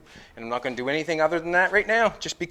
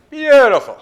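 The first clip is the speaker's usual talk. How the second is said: much higher and louder, a happy falsetto cry; delighted squeal; 11 semitones higher, 14 dB louder than usual. Real, not acted. Admiring a good metal fit.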